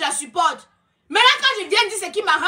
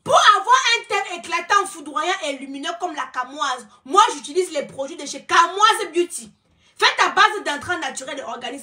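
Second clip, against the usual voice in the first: mock ad read. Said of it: "pause publicitaire".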